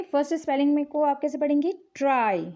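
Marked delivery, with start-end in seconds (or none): 1.9-2.5 "ट्राई" as one unbroken syllable; "ट्राई" in one piece, falling at the end. Shown as a demonstration. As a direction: say "ट्राई" in a single beat, no break. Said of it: "इसको हम एक बार में बोल रहे हैं".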